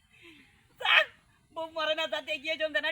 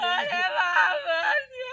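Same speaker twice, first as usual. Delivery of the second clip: loud, slow bereaved wail; exaggerated keening at full volume; demonstrative crying; 3 semitones higher, 6 dB louder, much slower than usual. Shown as a demonstration. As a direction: howl it with long held vowels. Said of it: "কেমন করে কান্দিবে".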